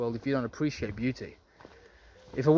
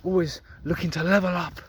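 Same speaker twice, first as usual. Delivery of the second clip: mock bitter whine; 5 semitones higher than usual. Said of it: "you're gonna be like".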